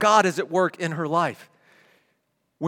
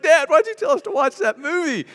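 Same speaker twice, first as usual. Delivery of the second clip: put-on kids; 11 semitones higher, 6 dB louder than usual. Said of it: "the kids are like".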